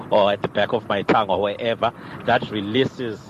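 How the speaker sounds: ordinary delivery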